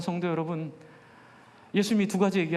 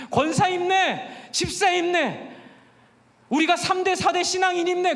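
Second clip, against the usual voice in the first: mock the hollow cheering of titles; 9 semitones higher, 4 dB louder than usual. Mocking chant of church titles. (비꼬는 응원 구호)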